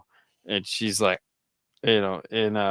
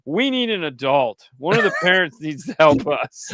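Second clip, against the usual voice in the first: put-on three-year-old child; 4 semitones higher, 4 dB louder than usual. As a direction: imitate a small kid earnestly demanding help. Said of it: "the three-year-old goes".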